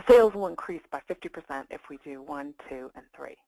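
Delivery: firm opening, dropping away at the end; statement of fact. Shown as a demonstration. Coach showing how to present sales points, matter-of-fact. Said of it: "deliver it as a statement of fact".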